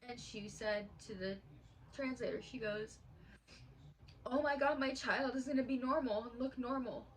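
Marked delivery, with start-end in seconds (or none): 4.2-7.1 choked-up retelling of her cry; retold tearful outburst. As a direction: imitate an overwhelmed crying mother. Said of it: "she sat down and she started crying".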